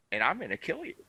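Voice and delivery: a calm, collected threat, not shouted; calm, cool threat. Retold or imitated. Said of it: "cool, calm demeanor".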